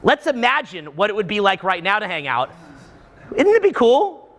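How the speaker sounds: mock-gushing about imagined plans; breathy make-believe LA excitement; dreamy fake enthusiasm. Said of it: "what you're saying is".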